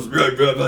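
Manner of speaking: garbled nonsense mumble mimicking someone; quick gibberish grumble; mock muttered crap with no real words; imitated grumbling. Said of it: "said some crap".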